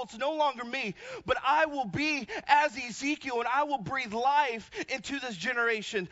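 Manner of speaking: emphatic, rhythmic sermon voice; declarative preaching. Acted. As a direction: declare it firmly to the congregation.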